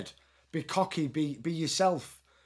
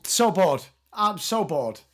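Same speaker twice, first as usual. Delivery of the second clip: bored; 3 dB louder than usual. Retold or imitated. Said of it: "Pam Anderson's just like".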